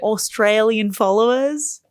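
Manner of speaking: slow, slipping into mock Australian; Australian accent. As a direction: let a playful Australian accent creep in. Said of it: "Every time you do it".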